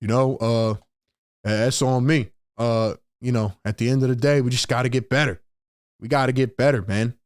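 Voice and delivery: low, limp mumble with filler words; mock listless Hurts. Fan mocks Jalen Hurts' sleepy podium answers, limp low mumble. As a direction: imitate a drowsy podium answer. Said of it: "Not going out there and say".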